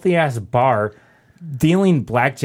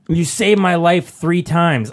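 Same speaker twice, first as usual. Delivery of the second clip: slow, earnest mock drunk; lightly voiced, slow drunk confession; imitating the drunk guy; 3 semitones higher, slower than usual. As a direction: drag it out like a sloppy drunk. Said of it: "And he's like".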